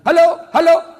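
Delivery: loud, high hammed-up phone hollering; mock villager shouting down the line; bellowing into phone. Villager calling his child at the wartel, hollering.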